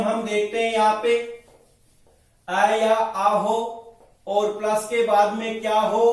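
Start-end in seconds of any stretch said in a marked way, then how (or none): 2.5-3.6 slow dictation. Shown as a demonstration. Teacher slowly states the rule.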